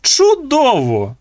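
high, slow triumphant cry; gleeful shout. Acted. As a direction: crow over the win. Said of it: "скрикнув Зік".

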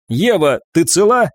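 a touch of strain, voice lifting on the question; tense. A narrator's reading. Commander checks if Eva is unhurt, tense. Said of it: "раздался напряжённый голос командира".

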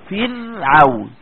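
فرعون drawn out very slowly with a thin ر; slow tajweed demo of a light ر; light Raa. Shown as a demonstration. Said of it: "لما تيجي تقول كلمة فرعون".

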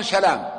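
سلام said salām, single l; سلام as "sa-LAAM"; light single lam. Shown as a demonstration. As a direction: pass lightly over the l in سلام. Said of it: "سلام بالتخفيف".

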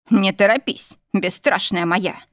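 slow, understated husky breath; hoarse exhale. Acted. Husband slowing his bride down, mildly hoarse and slow. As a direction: breathe it out slowly, a touch hoarse. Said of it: "выдохнул хрипло".

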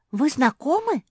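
high, loud astonished question; amazed question. A narrator's reading. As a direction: gasp it out in amazement. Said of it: "изумилась Мафи".

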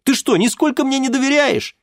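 very high, loud pleading cry; exasperated daughter. Acted. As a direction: burst out in exasperation.

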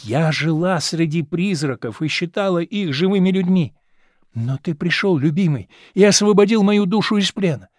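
put-on rapturous, tender young woman confiding; young actress in love. Actress telling her lover she's done with the stage, rapturous. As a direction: pour out her heart to her beloved.

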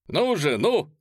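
high, loud egging on; urging shout. Acted. Polezhaev urging the guests to sing, loud. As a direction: rouse the crowd. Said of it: "крикнул он".

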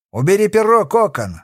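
shout. A narrator's reading. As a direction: shout him down from the window. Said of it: "закричал он".

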